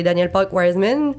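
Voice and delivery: Quebec French speaker slipping into an English accent on a Toronto name. Real, not acted. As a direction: say Danielle Park Wiseman the English way, not the French way. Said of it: "Mon Dieu, mon accent anglais".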